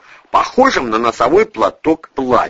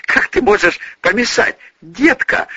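put-on babbling old man; 13 semitones higher than usual. A narrator's reading. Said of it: "пролепетал Боник".

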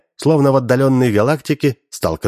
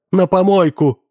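high, louder snap of a shout; 9 semitones higher, 3 dB louder than usual. A narrator's reading. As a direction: fling it out angrily. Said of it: "крикнула Алёна".

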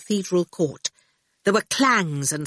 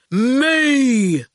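long drawn-out word, higher and louder; blunt digger driver; 6 semitones higher, 6 dB louder than usual. A narrator's reading. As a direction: stretch it out stubbornly. Erskine's character voice.

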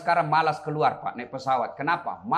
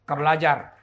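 ordinary delivery

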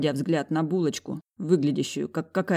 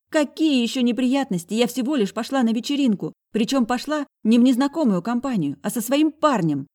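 put-on high, loud sassy girl's voice; high impudent sister; cheeky girl; 8 semitones higher, 4 dB louder than usual. A narrator's reading. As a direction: talk back insolently. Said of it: "дерзила нахалка".

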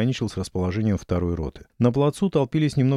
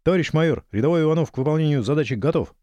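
brisk military report; 5 semitones higher than usual. Acted. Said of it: "браво отрапортовал".

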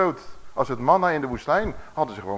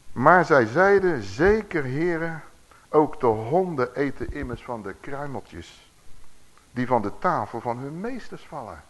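scripture reading; slower than usual. A narrator's reading. Preacher reading the woman's reply to the congregation, slow and measured. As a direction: read the verse out measuredly. Reads the Bible verse aloud.

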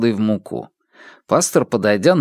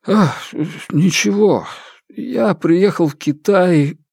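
teary; 7 semitones higher, slower than usual. Acted. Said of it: "смахнул слёзы".

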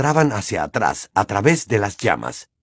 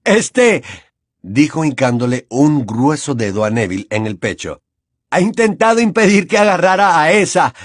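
thuggish student voice; 2 semitones higher than usual. Acted. Warrington reports, narration between.

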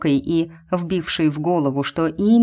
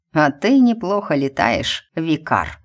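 hissed through teeth. Acted. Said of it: "процедил он".

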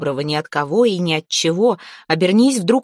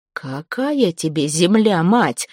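scornful interruption; slower than usual. Acted. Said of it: "с презрением прервал её покойник".

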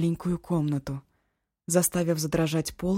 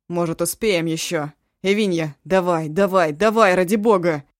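loud pleading hurry; desperate urging; 8 dB louder than usual. Acted. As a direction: beg her to hurry. Eshu pleads urgently.

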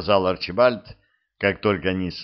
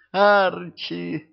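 high, joyful call of his name; girl flinging herself at her knight, calls out gladly; excited cry; 10 semitones higher than usual. Acted.

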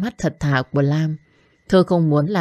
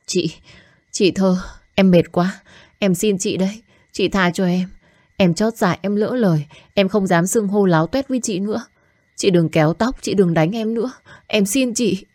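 higher, pleading voice, exhausted; desperate begging; 3 semitones higher than usual. Acted. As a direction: beg for mercy on your knees. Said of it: "Con bé van xin thảm thiết". (van xin thảm thiết)

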